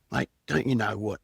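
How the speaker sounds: building from firm to high, loud yelling; angry yelling. Retold or imitated. Ripping into a caller dobbing on his neighbour, building to a yell. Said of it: "And I started screaming at him and yelling at him".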